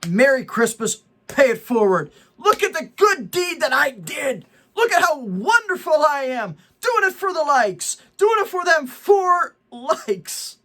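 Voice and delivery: lightly voiced smug bragger, slowing at the end; mocking a bragger. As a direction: mimic a self-satisfied poster patting himself on the back. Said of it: "So they're like".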